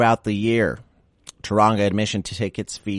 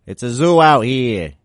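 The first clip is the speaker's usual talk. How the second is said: mock shout; 6 semitones higher, 10 dB louder than usual. Joke shouted after zoo name.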